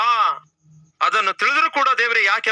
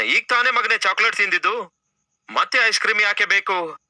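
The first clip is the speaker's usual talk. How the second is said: put-on higher, lightly scolding a child; a touch of parental irritation, pitched up; ಈಗ ತಾನೇ said as a mild higher-pitched scold; mildly annoyed parent; 4 semitones higher than usual. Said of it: "ನೀವು ಸ್ವಲ್ಪ ಸಿಟ್ಟಾಗ್ತೀರಿ".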